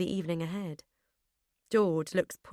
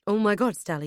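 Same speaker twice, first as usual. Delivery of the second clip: alarmed; 2 semitones higher, 6 dB louder than usual. Acted. Husband rushes to fallen wife.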